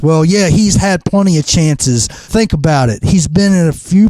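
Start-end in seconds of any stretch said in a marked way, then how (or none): none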